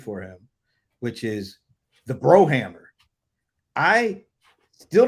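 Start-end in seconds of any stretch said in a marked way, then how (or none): 2.1-2.8 pause, then punch the Brohammer louder; dramatic reveal. Acted. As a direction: build up and land the Brohammer like a wrestling intro.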